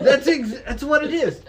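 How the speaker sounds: laughing. Real, not acted. Laughing after singing.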